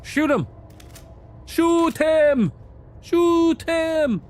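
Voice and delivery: shouting. Real, not acted. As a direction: scream the order at them. Urging teammate to shoot.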